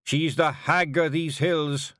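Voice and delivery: earnest Scottish chief, building then dropping; Rob Anybody, proud Feegle. Acted. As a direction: swell with pride for the hag. Rob reverent.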